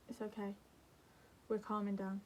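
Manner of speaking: soft, hushed self-calming; soothing reassurance. Acted. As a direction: tell the body it's safe, softly. Voicing calming signal to organs.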